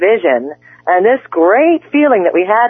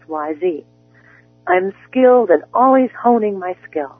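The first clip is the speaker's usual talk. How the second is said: softer, measured guided-meditation delivery; guided affirmations; 4 dB quieter than usual. Acted. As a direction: speak each I am like a calm promise. Coach guides spoken affirmations.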